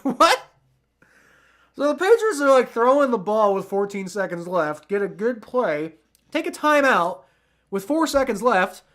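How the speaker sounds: loud, high, disbelieving rant; baffled outburst. Real, not acted. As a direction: cry out in confused disbelief at the timeout. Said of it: "I'm really confused".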